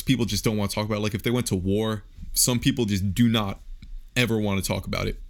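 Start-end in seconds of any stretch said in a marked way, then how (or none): 2.3-5.2 talking through hiccups; hiccuping between words. Real, not acted. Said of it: "I have the hiccups".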